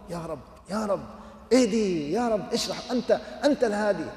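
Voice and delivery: fervent prayer. Retold or imitated. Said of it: "قلبه توجه بكليته إلى الله".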